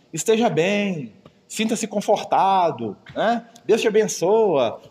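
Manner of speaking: slow, syrupy empty blessing; mock pious blessing. A churchgoer blessing a suffering brother, slow and hollow. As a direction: hand out hollow comfort, drawn out. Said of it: "você fala assim".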